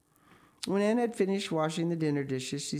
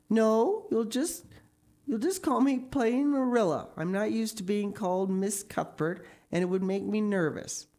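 higher, insistent guardian voice; Marilla, strict guardian, emphatic; 7 semitones higher, 3 dB louder than usual. A narrator's reading. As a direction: refuse the title firmly, hitting the no.

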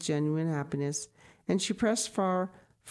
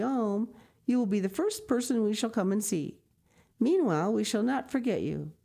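higher, lightly voiced kind lady; gracious farewell; 4 semitones higher than usual. Frau Sesemann bidding the grandmother farewell, gracious. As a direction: warm dignified goodbye.

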